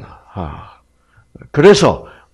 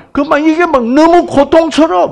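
put-on anguished child; 13 semitones higher, 5 dB louder than usual. Child upset after toy taken.

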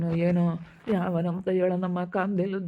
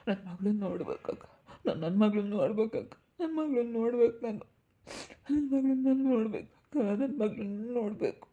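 tearful begging. Acted. Mother begs to see daughter.

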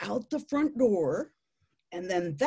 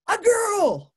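high, loud burst of delight; excited male tarantula; 13 semitones higher, 9 dB louder than usual. Acted. Male tarantula finding female's front door, excited squeal. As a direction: squeal it, thrilled at the find. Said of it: "he gets all excited".

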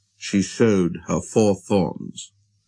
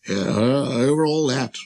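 casual royal confirmation, close to speaking pitch; assured king. Acted. King answering the astonished prince, calmly self-important. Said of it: "the king answered".

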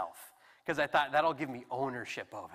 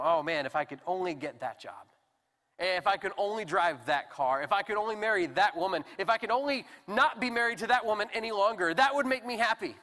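longing, building; 4 semitones higher, 4 dB louder than usual. Acted. Acted wishing for happiness, building.

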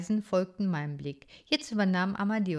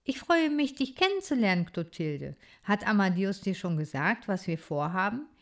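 put-on a curious young critter speaking up; lively little hero. Bodo voiced by reader.

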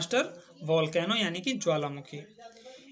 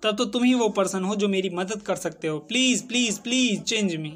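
in excitement; slower than usual. Acted. Teacher voicing Jal, mildly excited pleading to Mountain. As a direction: beg hopefully, mildly excited. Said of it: "बड़े ही उत्साह से बोले".

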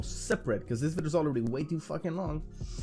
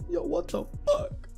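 mock shock. Fake outrage then kidding.

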